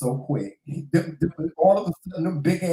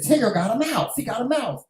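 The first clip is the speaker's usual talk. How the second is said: higher-pitched urgent report; retold alarm about a mouse; mock alarm; 6 semitones higher than usual. Wife retelling how she alerted Joseph, higher-pitched mock alarm.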